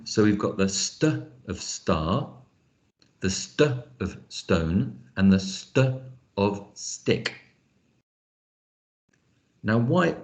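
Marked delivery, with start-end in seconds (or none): 0.1-7.3 the st sound isolated before each word; onset sounds shown. Shown as a demonstration. Teacher splitting onset from rhyme, st sounded alone. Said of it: "into onset and rhyme".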